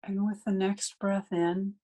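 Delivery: unhurried meditation guidance with long pauses; guided meditation. Real, not acted. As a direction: guide listeners gently into breathing, phrase by phrase.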